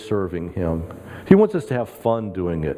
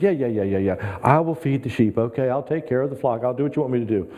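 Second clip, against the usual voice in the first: mild frustrated. Retold or imitated. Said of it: "Peter's getting a little frustrated".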